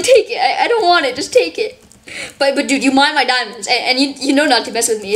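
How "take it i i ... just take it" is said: high mimicking voice. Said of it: "He's like".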